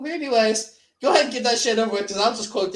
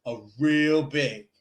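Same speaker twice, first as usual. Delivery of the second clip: quoting the movie. Retold or imitated. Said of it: "me quoting that fucking movie".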